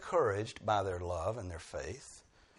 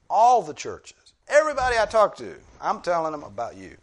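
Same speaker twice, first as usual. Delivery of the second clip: louder and higher, bursting out; excited Paul; 6 semitones higher, 10 dB louder than usual. Retold or imitated. Paul bragging to every church, voiced excitedly. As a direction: gush like he can't keep it in. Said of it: "Paul is so excited about this".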